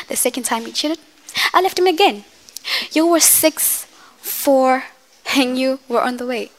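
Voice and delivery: hurt mother telling her children her story, lightly acted; a mother proving she is not weak, building to defiance; mother venting monologue. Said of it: "this is from Medea's Funeral".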